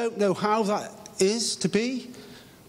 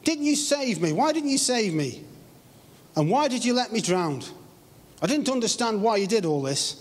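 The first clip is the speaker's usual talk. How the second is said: raised, pleading cry at God; mock-pleading outburst, pitched up; exclaiming; 5 semitones higher than usual. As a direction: exclaim it up high, pleading why. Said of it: "he exclaimed".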